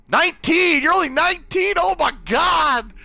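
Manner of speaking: high, loud disbelief; shocked at the age; surprised. Real, not acted. Reacting to a viewer's age.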